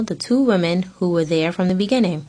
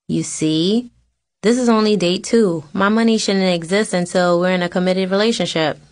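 whiny; 3 dB louder than usual. Retold or imitated. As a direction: whine lightly about the money. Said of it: "I whine".

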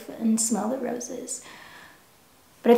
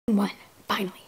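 whispered triumph; 4 dB quieter, faster than usual. Real, not acted. Celebrating a thrift win.

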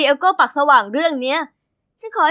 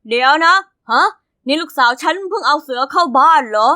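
a father's sudden double take, a bit louder; surprised father; 3 dB louder than usual. Acted. Dad realizing his daughter brought home a tiger, startled. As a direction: catch yourself mid-thought, louder.

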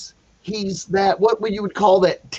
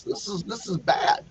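hushed whisper to himself; whispered dread; 6 dB quieter than usual. Retold or imitated. Teacher whispering to himself, fearing the student will fail. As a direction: breathe it out like a private panic. Inner dread before class.

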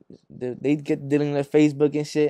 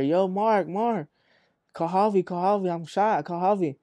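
mildly raised, urgent retold call; 4 semitones higher than usual. Wounded friend calls to Mark for help, retold urgent call. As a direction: imitate a hurt friend calling out.

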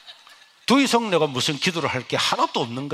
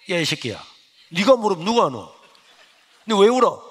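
teacher scolding; 6 dB louder than usual. Retold or imitated. Teacher scolds crying student.

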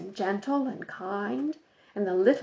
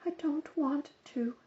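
softer, barely audible refusal; very low; 6 semitones higher, 8 dB quieter than usual. A narrator's reading. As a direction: say it so low they can hardly hear you. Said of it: "so low you could hardly hear her".

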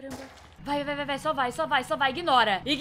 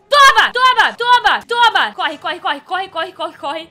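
being chased; 11 dB louder, slower than usual. Real, not acted. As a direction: yell with each hit. Hitting the monster.

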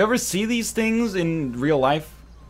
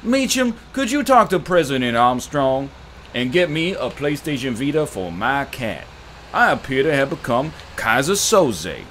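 Frank Underwood. Pretend. Streamer doing Frank Underwood for chat, lightly voiced. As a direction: play a smooth Southern senator, lightly. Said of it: "Nine Lives starring Frank Underwood".

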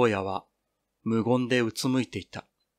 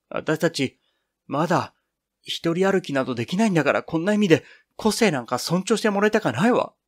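pushing out a pent-up grievance, climbing in pitch; emotion-charged voice; 4 semitones higher than usual. Acted. Girl pours out her frustration to friends, rising emotional voice. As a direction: voice rising higher with feeling as she goes. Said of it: "感情の迫った声で言った".

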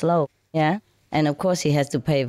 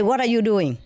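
retold angry snap; 6 semitones higher than usual. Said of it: "my temper".

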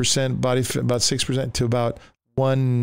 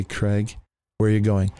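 calm voice; 2 semitones lower than usual. Retold or imitated. The Lord cuts through screaming voices, calm. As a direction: say it evenly, without any urgency. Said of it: "I hear this calm voice say".

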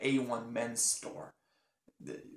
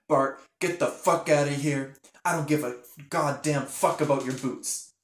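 mild angry outburst, a bit louder; annoyed telling-off; 4 dB louder than usual. Acted. Linda telling Bart to get out, mildly angry. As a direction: tell him off with some force. Angry boss's waitress tells him off.

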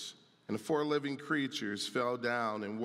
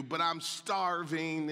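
put-on snarky kid whine; 2 semitones higher, slower than usual. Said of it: "if they're snarky like my kids get sometimes".

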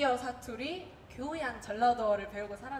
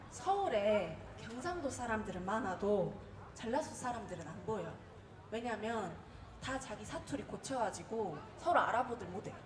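put-on older friend's advice; 3 semitones lower, 6 dB quieter than usual. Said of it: "그러니까 언니가".

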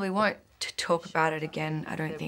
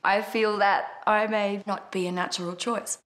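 mock formal politeness; 6 semitones higher, 3 dB louder than usual. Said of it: "I was like".

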